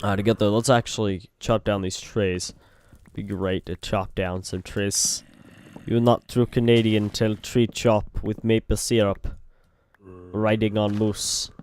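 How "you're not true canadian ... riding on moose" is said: a light mock Russian accent; broken English in a hint of Russian. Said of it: "that was in a Russian accent".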